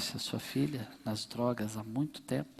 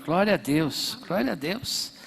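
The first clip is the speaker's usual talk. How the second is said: exclaiming praise; 6 semitones higher, 7 dB louder than usual. Real, not acted. Pastor exclaiming praise in church.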